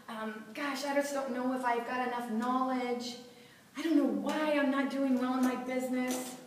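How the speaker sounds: mock worried self-talk, a bit hushed; anxious inner voice. Speaker voicing her own self-doubt, mock anxious. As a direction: voice the nagging doubts lightly. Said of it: "Then we have stories like".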